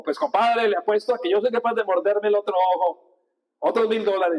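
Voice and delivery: light chilango Mexican voice, boasting a bet; bragging compadre in a mild chilango accent; playful hint of a Mexico City accent. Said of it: "el de los mexicanos chilangos sí lo sé".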